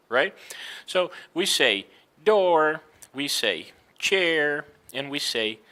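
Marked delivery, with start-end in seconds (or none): 2.2-2.8 door ending in a strong R; grunted R. Shown as a demonstration. Teacher modelling for Brazilian learners, door with grunted R. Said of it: "make it as, you know, this grunt". 4.0-4.7 chair drawn out into a strong R; grunted R. Shown as a demonstration. Teacher modelling for Brazilian learners, chair with grunted R. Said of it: "make it as, you know, this grunt".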